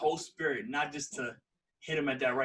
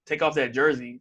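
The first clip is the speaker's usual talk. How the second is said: louder, aggressive retold challenge; 5 dB louder, slower than usual. Friend escalating things with the drunk dude, retold aggressive demand. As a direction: put some push into the retold order. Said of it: "he said it aggressively too".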